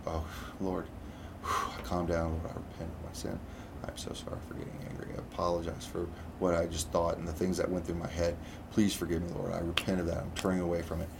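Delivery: hushed, near-whispered prayer of repentance; quiet retold apology to God under the breath. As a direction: murmur the prayer so the caller can't hear. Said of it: "literally under my breath".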